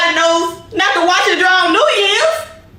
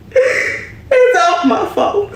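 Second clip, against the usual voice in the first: mock crying; 5 semitones higher, much slower than usual.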